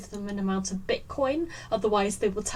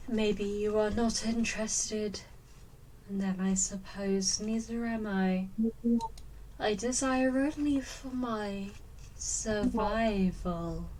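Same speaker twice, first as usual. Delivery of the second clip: slow creature voice; slower than usual. Acted.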